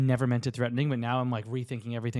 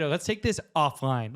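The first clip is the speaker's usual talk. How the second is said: mock-threatening slow read; slow, menacing take. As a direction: drawl it slowly with a threat underneath. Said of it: "that definitely sounds threatening".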